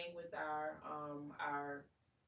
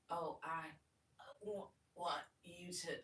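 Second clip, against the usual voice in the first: choppy broken phrasing. Shown as a demonstration. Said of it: "even in the sexiest voice".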